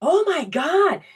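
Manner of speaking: high, slow dawning mock fright; sudden alarm. Child realizing she should be scared, high slow alarm. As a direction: let the panic dawn slowly. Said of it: "my cognitive skills go".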